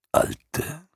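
Alte lifted high with a rising end; high rising old creature. Acted. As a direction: Alte as a drawn-out questioning squeak up high. Morla speaks to herself.

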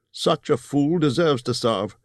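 ゆっくり突き放すように言うバルド; 少しだけ声色を変えた弓の名手; lightly voiced Bard.

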